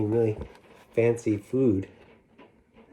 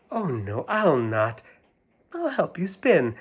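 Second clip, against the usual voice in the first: cat's voice; 5 semitones higher than usual. Acted. Cat voiced.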